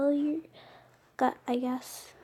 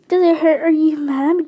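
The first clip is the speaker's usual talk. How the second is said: anxious questions; 4 semitones higher, 8 dB louder than usual. Acted. Fussing over injured mate.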